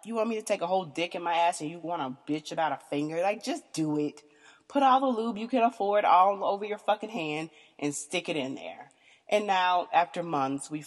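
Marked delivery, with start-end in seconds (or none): 0.0-8.9 impatient scolding. Retold or imitated. Retelling how she scolded her partner, exasperated. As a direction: scold him to get over it. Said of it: "I'm like".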